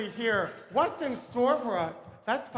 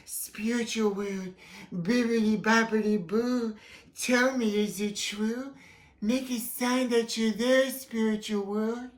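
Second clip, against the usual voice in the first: seance medium. Acted. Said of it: "Medium Crystal is contacting the spiritual world".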